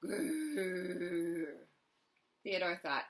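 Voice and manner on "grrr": growl. Acted. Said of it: "It growled at Theodore".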